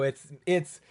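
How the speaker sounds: high, loud, drawn-out proclamation; mock grand reveal. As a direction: announce it like a hammed-up punchline. Joking mock revelation, friends burst out laughing.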